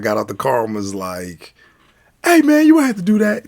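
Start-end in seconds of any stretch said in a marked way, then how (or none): 2.2-3.4 loud, high, quick objection; acted-out movie dad's outcry; shouted protest. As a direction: holler it at the bully. Dad protests in Friday scene.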